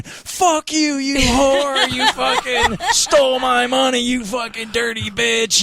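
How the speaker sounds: half-laughing imitation of an enraged fan; retold screaming. Angry fan leaving the Charlie Sheen show, mock screaming through laughter. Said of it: "comes out screaming".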